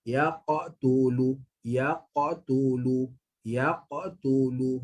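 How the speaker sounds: Yaqtulu in one flow, qaf bouncing straight into tu; smooth joined Yaqtulu; correct flowing recitation. Shown as a demonstration. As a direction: keep Yaqtulu running without a stop. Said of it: "sambung terus".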